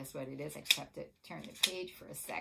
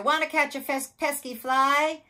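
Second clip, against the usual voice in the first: high, loud, animated invitation; storybook rooster; 10 semitones higher, 14 dB louder than usual. A narrator's reading. Rooster asking spider to catch a fly, high and loud. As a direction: call it high, stretching the last words. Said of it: "cried the rooster".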